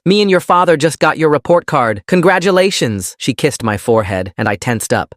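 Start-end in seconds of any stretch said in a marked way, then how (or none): 0.0-3.1 high-pitched, overjoyed congratulations; beaming excitement. A narrator's reading. Mom praising her child's report card, beaming and excited. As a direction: gush with a radiant smile. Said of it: "her smile practically radiating".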